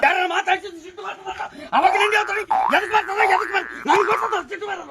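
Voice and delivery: comic touchy rant; acted anger. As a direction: protest irritably, as if provoked. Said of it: "ಸಿಟ್ಟೊಂದು ಭಾಳ ಬರಕಚ್ಚಿ". (ಹಾಸ್ಯದ ಸಿಡುಕು)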